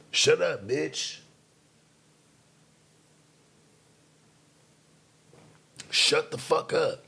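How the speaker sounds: high scolding. Acted. Telling off an imagined woman.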